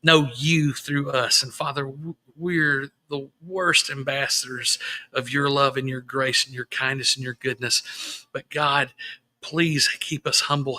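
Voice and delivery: earnest, gently spoken prayer; quietly sincere public prayer. Real, not acted. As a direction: pray aloud for grieving families. Leads a prayer.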